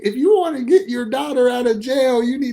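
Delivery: high, pushy scam caller; scammer voice. Retold or imitated. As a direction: read it like a phone scammer. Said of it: "scam call impression".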